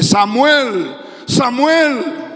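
calling voice of God. Acted. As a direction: call out the name as if from heaven. God's voice calls a third time.

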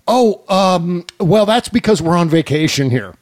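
badly faked British accent; terrible British accent. Prank caller stalling the White House, terrible British accent. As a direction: put on a poor British accent. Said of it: "in that terrible British accent".

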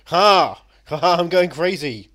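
loud, high mock-crazed writer; manic writer cackle. Imitating David Milch cackling to the podcast host. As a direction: play the writer gleefully losing his mind. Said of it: "David Milch at this point going".

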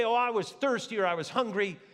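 lightly mocked excuse; hammed-up excuse-making. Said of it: "They didn't say".

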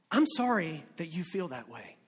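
low, subdued mock apology; crummy apology. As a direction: apologize insincerely, keeping it small and low. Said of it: "They sound like this".

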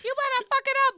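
high, each word punched apart; punctuated yell. Retold or imitated. Retelling Mary's shout at the fest, punched high. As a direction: hit every word like a comma. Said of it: "like, punctuated".

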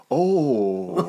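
a hushed, high stunned oh; like an old spirit left his body; dad's stunned oh. Retold or imitated. Dad watching the replay, stunned into a high oh. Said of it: "and my dad goes".

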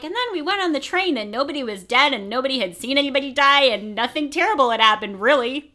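lilting storybook-style listing; mock carefree recap. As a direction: rattle it off like a happy child's recap. Voicing children's carefree end-of-year recap.

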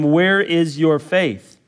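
"Where is your faith?" drawn out slowly, each word weighed; slow it right down and let "Where" land; slow emphasis. Shown as a demonstration. Pastor repeating Jesus' question to the church, slow and weighty.

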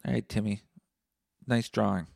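loud, curt brush-off; dismissive dad. Retold or imitated. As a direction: wave the kid away bluntly. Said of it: "maybe just be like".

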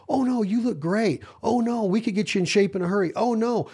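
high, sugary fake reassurance; butter them up with empty praise; mock flattery. Trainer faking praise for a client, mock sweet. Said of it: "beat around the bush and blow smoke up your ass".

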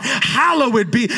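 slow shouted hallowed; preached shout. Acted. Preacher calls out the prayer words to the congregation, slowly. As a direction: stretch it out in praise. Preacher exalting God's name.

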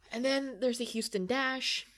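hushed, conspiratorial whisper. Acted. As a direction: drop to a secretive whisper. Hushed switch to next team.

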